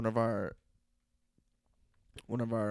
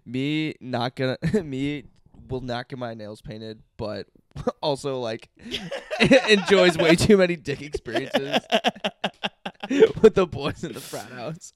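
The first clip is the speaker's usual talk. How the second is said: laughing mockery; 4 semitones higher, 10 dB louder than usual. Teasing the co-host about frat stories, laughing caveman voice. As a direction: talk in caveman third person through laughs. Mocking friend in third person.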